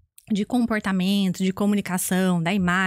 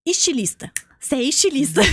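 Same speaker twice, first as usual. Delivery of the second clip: imitating an excited guesser, higher pitch; triumphant guess; 4 semitones higher than usual. Man at the car window guesses, triumphant guess. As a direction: proudly announce the answer, lightly acted.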